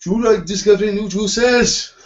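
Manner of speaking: put-on Welsh accent voiceover, very high-pitched and very loud. Imitating a boss doing a juice advert voiceover: imitating a Welsh accent. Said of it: "just in his Welsh accent".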